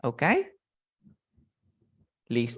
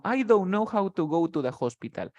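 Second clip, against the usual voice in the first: "I don't know how to go to the hospital" run together at a natural pace; connected speech; 6 semitones higher than usual. Shown as a demonstration. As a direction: say it the way natives link it. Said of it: "cuando yo pronuncie rápido". (de corrido, natural)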